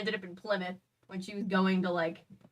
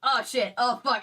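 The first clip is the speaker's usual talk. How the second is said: louder, higher mock panic; retold alarm; 4 semitones higher, 5 dB louder than usual. Imitating the band learning the truth, mock alarm. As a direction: blurt out the band's sudden realisation. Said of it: "And they were like".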